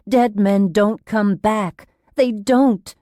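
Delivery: slow, insistent denial; firm and emphatic. A narrator's reading. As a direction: insist on it word by word. Character insisting against the supernatural.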